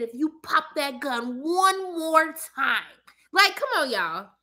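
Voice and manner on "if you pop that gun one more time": quoting Chicago line. Retold or imitated. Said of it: "He said".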